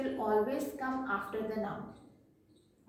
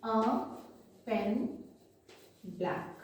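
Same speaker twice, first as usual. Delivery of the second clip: slow dictation; 2 semitones lower, much slower than usual. Shown as a demonstration. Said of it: "So we will write like this".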